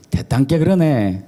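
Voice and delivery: Jeolla regional accent; Jeolla dialect. Shown as a demonstration. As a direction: imitate a Jeolla local. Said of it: "전라도는".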